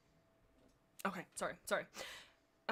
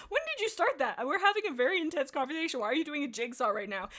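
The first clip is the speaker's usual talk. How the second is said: much higher, louder and fast; incredulous outburst; 6 semitones higher, 6 dB louder than usual. Acted. Leader baffled she does a jigsaw mid-argument, squawking in disbelief.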